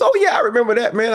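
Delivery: imitating the singer. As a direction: sing it up like a star faking politeness. Retelling singer's polite reply.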